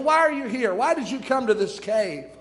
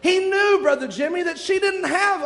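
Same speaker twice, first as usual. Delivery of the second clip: emphatic preaching; 7 semitones higher than usual. Real, not acted. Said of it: "emphatic preaching burst".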